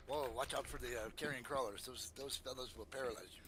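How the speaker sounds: put-on lightly accented, mildly cautioning drow; a hint of a suave foreign guide. Drow warns the party about carrion crawlers, lightly accented.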